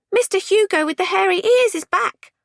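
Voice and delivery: high, loud holler; shouted announcement. A narrator's reading. Jimmy warns the group from outside, shouting. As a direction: call it out at high pitch, loudly. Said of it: "shouted Jimmy from outside".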